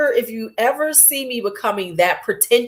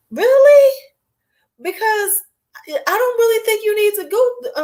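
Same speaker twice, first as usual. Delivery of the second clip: mocking, much higher skeptic; sarcastic disbelief; 12 semitones higher than usual. Real, not acted. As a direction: pour on the doubt. Mocking self-love claims.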